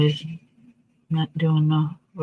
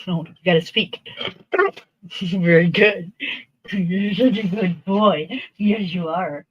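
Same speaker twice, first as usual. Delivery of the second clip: talking to a dog. Real, not acted. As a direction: praise him like a good pup. Praising the dog.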